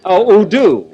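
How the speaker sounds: mock baby talk. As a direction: coo it like a baby. Mocking Phil's baby talk.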